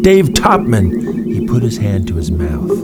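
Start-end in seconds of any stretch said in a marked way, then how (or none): 0.0-1.1 much higher, louder, slow calling out; name said out loud. Acted. Chuck testing the full name aloud, high loud call. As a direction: say it out loud to test the sound. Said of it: "Then he tried it out loud".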